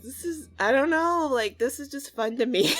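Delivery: loud, giddy gushing; excited, loud confession to the viewers; real excitement. Real, not acted. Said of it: "I'm so excited about this".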